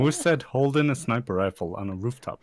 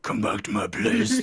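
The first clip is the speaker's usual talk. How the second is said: sleazy pickup line; 11 semitones higher than usual. Acted.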